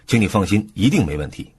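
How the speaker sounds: "一定" punched to sound certain; stress on 一定. Shown as a demonstration. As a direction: put the weight on "一定" for certainty. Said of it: "重音放在 “一定” 上". (重音放在“一定”上，强调确定)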